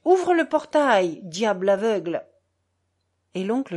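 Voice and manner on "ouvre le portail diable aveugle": irritated shout. A narrator's reading. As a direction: yell it at the clumsy worker, annoyed. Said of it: "cria d'un ton irrité".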